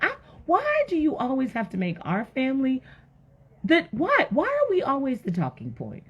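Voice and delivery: high, whiny-edged wifely complaint; acted exasperation. Wife complaining to Noah about gossip, exasperated. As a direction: plead why it's always our family.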